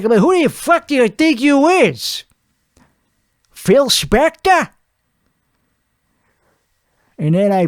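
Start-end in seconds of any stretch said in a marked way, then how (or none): 0.2-4.7 high-pitched, incredulous challenge; mock indignant retort. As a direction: throw it at him as a hammed-up comeback. Acting out his retort to producer.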